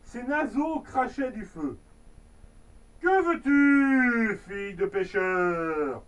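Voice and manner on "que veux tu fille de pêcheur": dragon king. Acted. Dragon king addresses girl.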